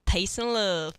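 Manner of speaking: put-on British accent; catchphrase in a mock British accent; a famous musician's British accent. Host joking to co-host in a British accent. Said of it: "I would just sound like a famous musician".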